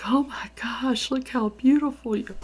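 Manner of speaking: high-pitched, retold admiration; amazed gushing. Friend gushes while hugging her.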